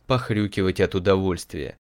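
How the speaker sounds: ordinary delivery, nothing marked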